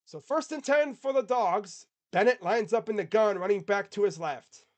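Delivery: slow, high, loud drawled So first and ten for the Dogs; Texas drawl. Shown as a demonstration. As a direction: stretch the call out in a heavier Texas drawl. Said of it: "There's that drawl from Texas".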